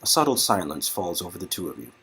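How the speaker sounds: slowing, softening narrator; soft story narration. A narrator's reading. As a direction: linger on each word like a romance narrator. Narrates a tender moment.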